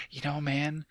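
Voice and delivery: lightly voiced stoner-dude Ted accent; a first go at a bad Ted accent. Host starting a dude truism about food, bad Ted accent. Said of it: "my bad accent".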